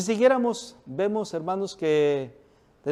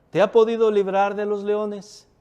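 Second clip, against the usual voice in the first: calling out sadly; 4 semitones higher, 5 dB louder than usual. A narrator's reading. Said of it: "llamó a voces a Daniel con voz triste".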